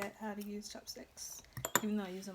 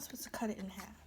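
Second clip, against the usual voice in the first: whispering; 3 semitones lower, 6 dB quieter, faster than usual. Real, not acted. Whispered scolding while eating.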